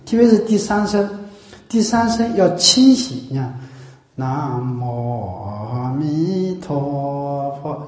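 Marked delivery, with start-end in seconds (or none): 4.2-7.8 slow chant dipping then lifting like a song; rising and falling tones. Shown as a demonstration. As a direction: chant 南无阿弥陀佛 with 陀 pulled up. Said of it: "有一种下去延上". (有起伏地念)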